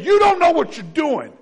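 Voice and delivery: mock-lecture the creator, slow and loud; audacious griper. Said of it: "having the audacity to say".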